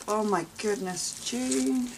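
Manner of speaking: high, loud delighted surprise; astonished exclamation. Real, not acted. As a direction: exclaim the name in amazement. Delighted reaction to opened parcel.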